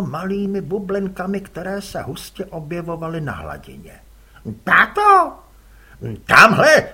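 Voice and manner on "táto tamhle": put-on much higher, louder boy's call; a boy alarmed, calling his dad. Son calls his father, excited boy's voice.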